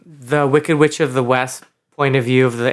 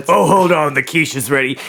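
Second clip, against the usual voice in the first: slightly raised homely mom voice; lightly voiced mom; housewife mom. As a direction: break off villainy for a kitchen call. Supervillain mom breaks off for kitchen.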